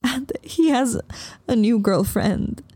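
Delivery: high, tearful, slowing at the end; sobbing. Acted. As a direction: choke out the news crying. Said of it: "I stopped sobbing long enough".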